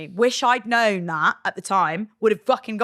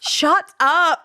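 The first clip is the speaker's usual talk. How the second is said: embarrassed squeal; 8 semitones higher, 6 dB louder than usual. Real, not acted. Embarrassed outburst at memory.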